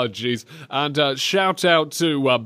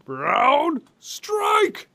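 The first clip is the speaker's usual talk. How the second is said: high shouted move name; game shout; 12 semitones higher than usual. Retold or imitated. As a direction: yell it like a fighter. Imitating the game voice.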